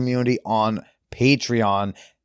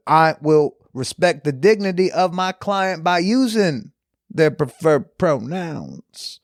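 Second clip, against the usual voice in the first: Southern lawyer; 3 semitones higher than usual. Pretend. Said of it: "that improvisation".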